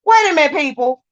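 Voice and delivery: exasperated. Real, not acted. Angry rant about the women.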